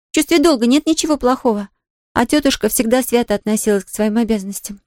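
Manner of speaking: put-on a young girl defending her aunt; earnest Pollyanna. Pollyanna defends her aunt to Nancy, earnest girlish voice.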